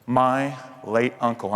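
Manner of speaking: "late" slowed and weighted, with the whole phrase slow; stress on late. Shown as a demonstration. Comic stressing "late" to the audience about his uncle. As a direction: lean hard on "late" so it means dead. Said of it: "I emphasize the word late".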